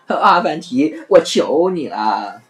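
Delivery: slow begging plea; pitiful pleading. Acted. Innkeeper pleading with Afanti, slow and pitiful. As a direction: beg him, sounding pitiful. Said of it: "可怜兮兮地说".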